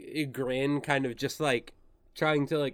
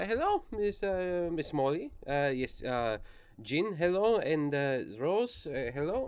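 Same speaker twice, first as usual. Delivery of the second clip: bad German accent. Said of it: "your German accent has now gone full Taika".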